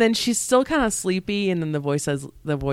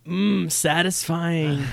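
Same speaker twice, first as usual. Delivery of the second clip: slow, savoring villain purr; satisfied villain; much slower than usual. Pretend. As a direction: relish the taste slowly.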